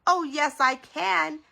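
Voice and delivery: loud, high comeback; playful retort. A narrator's reading. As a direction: fire back a teasing challenge. Father playfully answers the chase taunt.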